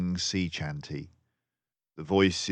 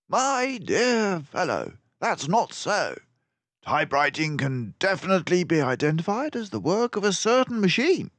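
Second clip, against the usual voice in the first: high, loud, brisk detective voice; a clever mouse sleuth, pleased with himself; Basil the mouse detective; 13 semitones higher, 5 dB louder than usual. A narrator's reading. Narrator voicing Basil to Dawson, high and loud.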